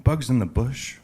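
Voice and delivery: puzzled question with a rising end; mildly acted confused doctor, own accent. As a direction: repeat it back as a baffled question. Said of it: "kinda confused".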